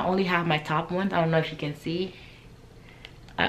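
speaking with lip held back; finger pulling lip. Real, not acted. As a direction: teeth bared, lip stretched. Seen 0: Finger hooks mouth corner, baring teeth while speaking; released by 2.6.

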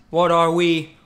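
loud, slow, booming boast; proud battle cry. Acted. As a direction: crow it like a king. Hyped rallying cry.

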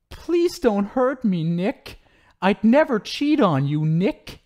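high, simpering mockery of her pleading; mocking whiny victim. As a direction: parrot her plea in a pathetic high whine. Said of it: "You did tell such a heart-wrenching story".

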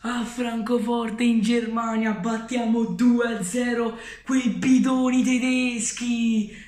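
slow, gloating chant. Real, not acted. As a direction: crow over the beaten rivals. Gloating over German side.

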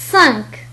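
"سانك" ending on a released k; French nasal vowel, then k, in "سانك". Shown as a demonstration. Teacher modelling French Q for learners, final k in "سانك". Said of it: "وهو ينطق مثل الكاف".

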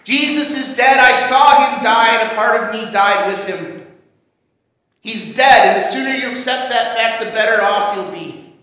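loud, forceful, bitter rebuttal; acted angry skeptic, hurt underneath; barked disbelief. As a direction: shut the friends down, hammering each denial. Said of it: "Thomas barks".

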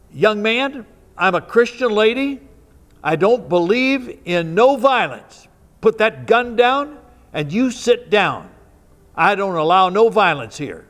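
firm Christian lady. Retold or imitated. Christian lady telling the gunman to sit down, firm and loud. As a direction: scold him like a church grandmother who won't be crossed. Old woman confronts armed intruder.

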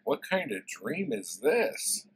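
slow, swooping wonder; slow, sing-song puzzlement; dazed dreamer. Retold or imitated. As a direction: draw it out in mock bewilderment. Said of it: "He's like".

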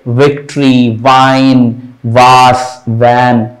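विक्ट्री, वाइन, वास, वैन with teeth touching lip on the V; touch teeth to lip to start विक्ट्री, वाइन, वास, वैन; V sound. Shown as a demonstration. Teacher demonstrating the V symbol, toothy V in विक्ट्री, वाइन, वास, वैन. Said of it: "नीचे वाला जो दांत है".

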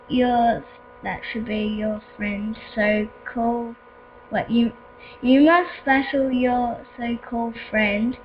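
lightly voiced game villain; slow, solemn villain commands. Voices map villain giving orders.

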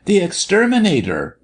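high-pitched excited outburst; jerked out. A narrator's reading. Martha finally answering the doctor, excited blurt. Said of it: "Martha managed to jerk out at last".

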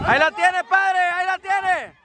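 tono agudo y sostenido; narración emocionada. Real, not acted. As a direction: estirar la jugada como comentarista. Narra una jugada de gol. (comentarista agudo ante la jugada)

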